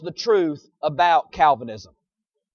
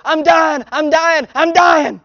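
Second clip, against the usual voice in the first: higher, whiny baby plea, hammed up; mock baby whine; 4 semitones higher, slower than usual. Preacher voicing a crying baby for the church, mock whine. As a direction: whimper it like a baby faking distress. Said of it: "What they're saying is".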